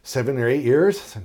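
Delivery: acted breathless answer; short of breath. Patient answers how long he's breathed like this, acted short of breath. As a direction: play a mildly winded patient. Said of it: "breathing like this".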